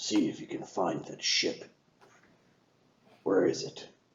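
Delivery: hushed, breathy whisper. Voicing a character giving the crew an order: whispering to the crew. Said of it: "he whispers to the crew".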